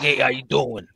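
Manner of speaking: lightly put-on old-school New York accent; a hint of gruff New York tough guy. Friend's voice shown to colleagues, gruff New York. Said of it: "gruffy old school, like, New York voice".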